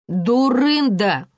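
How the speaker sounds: slow drawn-out reproach; reproachful. A narrator's reading. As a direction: scold a silly colleague slowly. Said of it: "упрекнула коллегу Люся". (укоризненно, протяжно)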